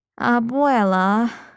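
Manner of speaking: groaned delivery. Narrator reads Carlos answering his abuela; groaning. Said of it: "Carlos groaned".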